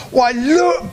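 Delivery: the bear spots his family; a mild glad cry, high; excited cry. Acted. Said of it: "cried Ernest".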